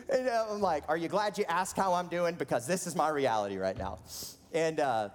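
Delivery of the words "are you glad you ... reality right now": louder, high start falling away; hammed-up overwrought complaint; mock tearful outburst. Confronting the man who asked, mock tearful outburst.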